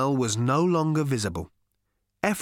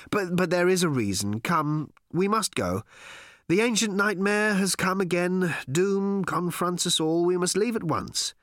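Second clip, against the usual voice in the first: higher, urgent warning of doom; urgent and agitated; 5 semitones higher than usual. Acted. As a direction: press them to leave, alarmed. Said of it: "breathless and agitated".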